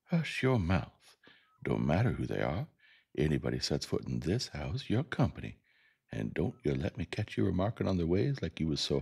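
put-on cook giving a child a telling-off; scolding Calpurnia. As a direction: scold the child for bad manners. Calpurnia scolds the narrator in dialogue.

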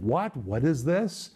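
rising questions of disbelief; preacher voicing Paul's astonishment; incredulous exclamation. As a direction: ask it like you can't believe what you see. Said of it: "it is an exclamation".

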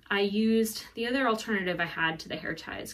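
usual speaking voice

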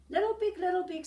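loud booming wolf call. Acted. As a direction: call out like the big bad wolf at the door. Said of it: "said the wolf".

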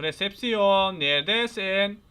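slow, stretched sing-out call; playful calling out. Pretend. Player searching the hotel for reception, calling out. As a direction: draw out each word as if searching.

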